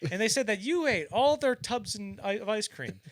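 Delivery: loud, high mock ranting; imitated comic tirade; Don Rickles. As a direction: pile on the insult like a roast comic. Voices Rickles improvising a fat joke.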